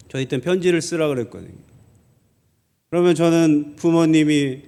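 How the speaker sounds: normal talking voice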